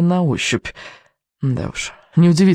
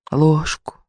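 dreamy witch voice. A narrator's reading. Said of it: "мечтательно повторил голос".

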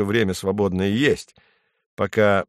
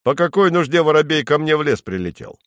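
higher, puzzled bird question; surprised woodpecker; 6 semitones higher, 3 dB louder than usual. A narrator's reading. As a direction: ask in mild surprise as a woodpecker. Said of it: "удивился".

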